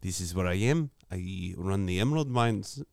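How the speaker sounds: lightly hammed-up South African accent; joking South African impersonation. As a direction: put on a rough South African voice. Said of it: "That's your South African impersonation".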